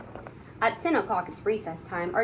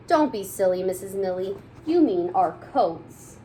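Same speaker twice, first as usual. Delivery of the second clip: put-on kids correcting; 4 dB louder than usual. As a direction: spell it out for a silly teacher. Class corrects teacher.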